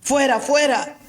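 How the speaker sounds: a mock crowd shout. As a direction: call out like the mob. Crowd shouting to crucify Jesus. (grito de la multitud, imitado)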